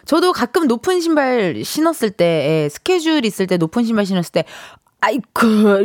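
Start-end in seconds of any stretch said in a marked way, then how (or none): 5.0-5.8 mock oof of getting up; imitated effort groan. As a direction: act out heaving yourself up. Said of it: "이렇게 일어나게 되더라고요".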